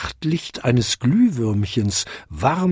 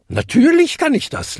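laughing; 14 semitones higher, 3 dB louder than usual. A narrator's reading. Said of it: "lachte sie".

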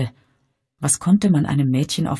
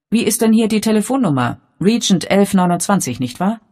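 raised a little, quick and loud; somewhat louder; 6 semitones higher, 5 dB louder than usual. A narrator's reading. The young man asks the desk clerk, raising his voice a little. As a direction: speak up so the hall can hear. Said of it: "mit etwas lauterer Stimme".

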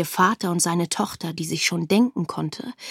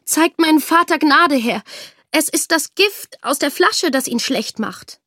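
louder, higher earnest begging; the daughter begging the king for mercy; pleading; 7 semitones higher, 4 dB louder than usual. A narrator's reading. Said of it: "bat die Tochter". (flehend, lauter und höher)

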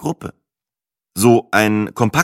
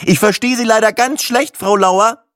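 higher, louder, pretending the line is breaking up; faking a bad line; 8 semitones higher, 4 dB louder than usual. Caller shakes off the bank clerk by faking a bad line, mock strained. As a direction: put on a fake bad-connection act.

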